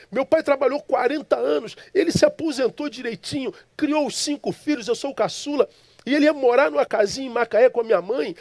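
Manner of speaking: high-pitched, indignant pleading of a case; aggrieved protest. Retold or imitated. Son argues his late father earned the little house, aggrieved. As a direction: pile up the grievances, pitch held high. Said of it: "Me, me, me porto como antagonista".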